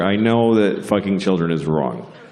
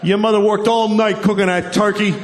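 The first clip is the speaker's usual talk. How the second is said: mock angry dad; 9 semitones higher than usual. A father at Thanksgiving yelling at his son, mock angry. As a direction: rant like an outraged dad.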